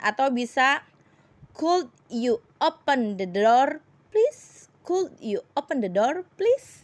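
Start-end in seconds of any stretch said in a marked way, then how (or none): 1.6-4.7 polite request. Shown as a demonstration. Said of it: "mengucapkan kata permintaan". 4.8-6.8 polite request. Shown as a demonstration. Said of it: "mengucapkan kata permintaan".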